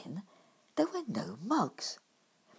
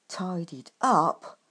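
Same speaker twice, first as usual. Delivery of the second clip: slow, stunned repeat; aghast; slower than usual. Acted. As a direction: echo it in slow disbelief. Narrator aghast at tidying.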